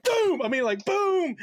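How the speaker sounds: a sudden loud, high bang; loud boom. Retold or imitated. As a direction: shout the boom like a crash. Imitating the bang of a head.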